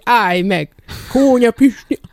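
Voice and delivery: imitating villagers yelling after someone; retold shouting. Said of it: "Azok meg kiabáltak".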